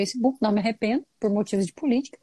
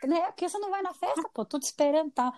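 pleading friend; 5 semitones higher than usual. Retold or imitated.

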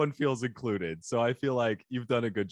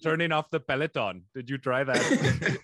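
mock Indian accent. Co-host playing tech support agent, mock Indian accent. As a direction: stretch it out in a faked Indian accent. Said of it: "some Indian person saying".

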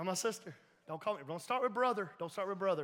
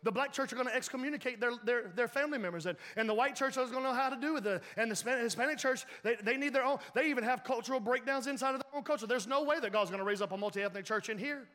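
a light hint of a wrestler's growly hype, slightly raised; lightly mock the wrestler's brash pitch; Hulk Hogan; 3 semitones higher than usual. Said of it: "sound like Hulk Hogan".

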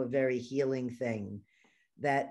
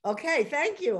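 high laughing okay, thank you; 8 semitones higher than usual. Real, not acted. Host accepting a compliment on her voice, laughing.

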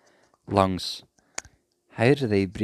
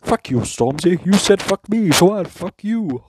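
higher and much louder, hammed-up angry retort; mock furious comeback; 9 semitones higher, 9 dB louder than usual. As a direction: spit it back like a petty prime minister. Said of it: "Johnson just turns around and goes".

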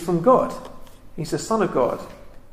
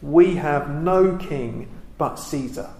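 1 slow, weighty reading; slower than usual. Shown as a demonstration. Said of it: "this one line here".

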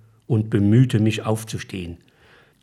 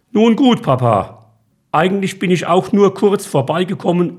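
son's voice, pitched up a little, eager; lightly voiced son, upbeat; 3 semitones higher than usual. Son invites his father to the Bayern game: lightly voiced, eager.

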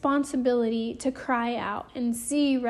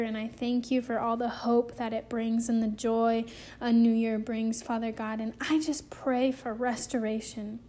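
prayer. Real, not acted. Preacher closes by praying for listeners' restoration, in prayer.

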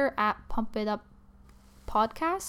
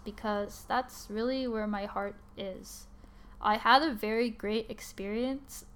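serious; slower than usual. Real, not acted. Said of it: "it sounds so serious".

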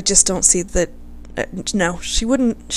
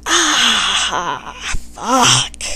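pained wince. Retold or imitated. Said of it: "like when you see somebody dislocate their knee".

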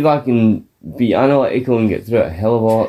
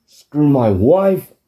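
fed-up husband; 3 semitones higher than usual. Retold or imitated. Husband leaving the arena ranting to his friend, mock fed-up. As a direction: storm out in a huff. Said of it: "He's like".

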